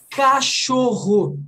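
"cachorro" slow and fully articulated; every letter pronounced. Shown as a demonstration. Teacher showing all letters in Portuguese, every letter pronounced. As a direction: stretch "cachorro" syllable by syllable. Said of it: "Eu falei todas as letras".

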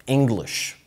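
"English" said slowly and carefully; correct English. Shown as a demonstration. Teacher giving the first school word, "English" pronounced carefully. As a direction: model the word "English", slow and falling. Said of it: "دي أول كلمة".

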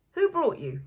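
put-on high, loud drunk demand. A narrator's reading. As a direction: bark the question at the newcomers. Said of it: "he demanded".

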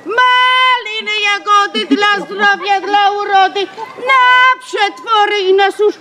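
hawking berries, rising to a shout; calling out wares. Acted. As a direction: shout to buyers passing by. Berry seller calling out.

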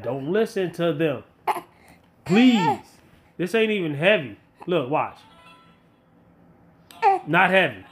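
ordinary talk

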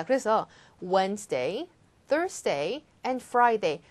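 Wednesday, Thursday, and Friday each set apart, rising then falling on Friday; list with pauses. Shown as a demonstration. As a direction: read the list one by one, pausing between days. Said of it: "차근차근 끊어서 읽어주시면서".

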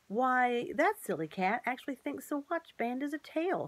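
high, amazed exclamation; astonished. Acted. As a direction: gasp it out in disbelief. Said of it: "in astonishment".

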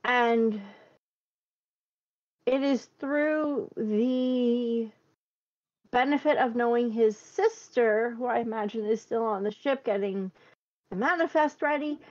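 slow, measured, formal diplomat; formal approach. Acted. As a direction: speak slowly like a careful diplomat. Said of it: "decide to go with a more formal approach".

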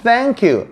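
"Thank you" with the tongue bitten on the th, high then falling; tongue-between-teeth th. Shown as a demonstration. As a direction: bite the tongue for the first sound of "Thank". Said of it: "혀를 깨물어야 돼요". (혀를 깨물고 내는 "Thank you"의 th)

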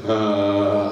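low drawn-out "ah" of bliss; contented sigh. Retold or imitated. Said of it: "Listen to this bit".

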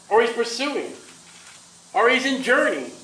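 acted prophet's jeer; mocking. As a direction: taunt with mock helpfulness. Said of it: "Elijah mocked and cried aloud".

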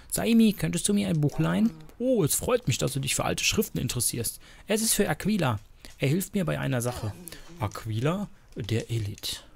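lightly acted story dialogue, changing tone between speakers; expressive dialogue reading; game dialogue read-aloud. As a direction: read the characters' exchange like an audio story.

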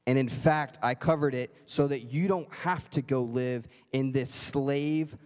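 father gently telling son the debt is paid; tender father. Retold or imitated. Dad voiced, tender and slow.

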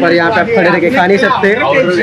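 muffled behind mask; speaking through respirator; through a face mask. Real, not acted. Seen 3: Speaker in checked shirt wears white N95 mask throughout talk.

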